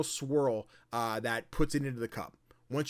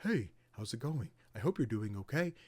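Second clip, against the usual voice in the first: softly voiced kind host; lightly acted sweet reassurance; gentle sweetheart; 2 semitones lower, 4 dB quieter than usual. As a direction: check in kindly, a little softer. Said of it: "He's such a sweetheart".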